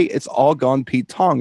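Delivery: "It's all gone Pete Tong" stretched out slowly, each word clear; slow, spelled-out phrase. Shown as a demonstration. Host explaining Cockney slang to cohost, saying "It's all gone Pete Tong" slowly. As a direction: lay out the catchphrase slowly for a friend. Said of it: "the Cockney actually say".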